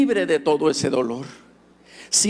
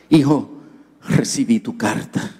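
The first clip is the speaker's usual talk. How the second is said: father's voice; 5 semitones lower than usual. Retold or imitated. Father speaking on phone.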